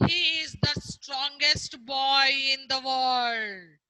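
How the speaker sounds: slow, growled, with a roughened shouted edge; growling tiger. Acted. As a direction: growl it out like a big scornful tiger. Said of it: "Then tiger growled".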